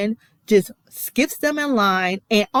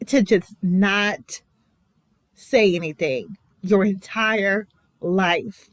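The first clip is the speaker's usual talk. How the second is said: slow, heavy with emotion; emotional; slower than usual. Real, not acted. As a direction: hold back tears, slowly. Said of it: "I'm getting so emotional".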